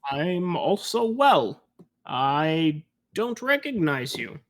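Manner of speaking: a hint of a slow-talking dwarf barkeep; lightly voiced gruff dwarf. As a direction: take it slowly as the dwarf bartender. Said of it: "a gruff-looking dwarf, and he goes".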